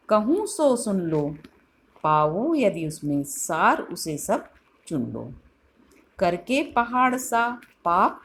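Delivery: measured, expressive reading of Hindi verse; recited poem. Acted. Teacher reciting Kaikeyi's lament to the class, expressive poetry reading. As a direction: let each line of the verse ring out with feeling.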